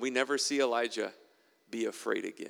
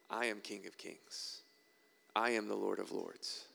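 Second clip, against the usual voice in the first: solemn divine declaration; 2 semitones lower, 6 dB quieter than usual. Acted. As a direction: declare it with quiet majesty. Preacher voicing God's declaration.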